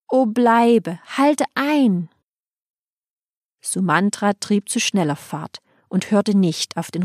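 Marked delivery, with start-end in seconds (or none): 0.1-2.1 higher, mournful plea to stay; sighing plea. Acted. People plead with Rama to stop, sighing plea. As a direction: beg him to stay. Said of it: "das Volk seufzte".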